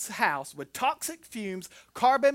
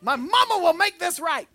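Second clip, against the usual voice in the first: put-on high, loud child-like plea; panicked kid; 10 semitones higher, 7 dB louder than usual. Nineteen-year-old in panic mode, crying for mama. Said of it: "the first thing I think of is".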